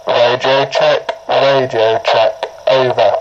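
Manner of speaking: walkie-talkie radio check call. Shown as a demonstration. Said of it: "First one".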